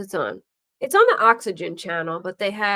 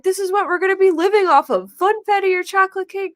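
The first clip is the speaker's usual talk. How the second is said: mock serious; 11 semitones higher, 5 dB louder, faster than usual. Voicing pranksters explaining.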